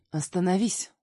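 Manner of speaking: man stopping fleeing woman, loud; commanding shout. Acted. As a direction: shout her to a stop. Catching her as she flees.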